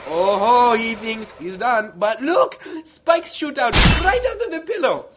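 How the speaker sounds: rising to a gleeful shout; gleeful villain shout. Acted. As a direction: build to a triumphant yell. Villain reveals spikes gleefully.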